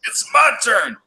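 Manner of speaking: put-on high whiny kid's yell; childish yell. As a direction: yell it like a bratty kid. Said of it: "Black Metal Troy used to yell".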